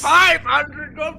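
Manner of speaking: slow loud auctioneer call. Acted. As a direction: drag out the bid. Auctioneer calling bids.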